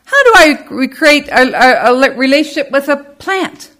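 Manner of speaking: high, puzzled asking; skeptical listener. Retold or imitated. Congregation member asks how to relate to a rock, high and puzzled. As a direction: voice the doubter's confusion. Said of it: "some of you might be asking".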